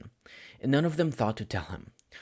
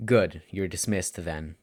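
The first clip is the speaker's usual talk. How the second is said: slow, lightly voiced tired teacher; a hint of a weary teacher waving him off; lazy dismissal; 4 semitones lower, slower than usual.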